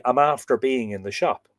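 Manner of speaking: "I'm after being in the shop" with stress on "after", said the Irish way; lightly voiced Irish phrasing, "after" stressed. Shown as a demonstration. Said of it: "in Ireland, we would say".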